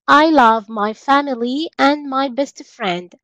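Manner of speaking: slow, careful teacher modelling; each word laid out slowly for learners; slow model sentence. Shown as a demonstration. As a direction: spell it out slowly for the class. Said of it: "teacher models English sentence".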